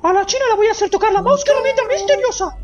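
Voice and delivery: high, squeaky mascot; high-pitched kiddie-show host; cartoon character voice. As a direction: talk up in a goofy falsetto.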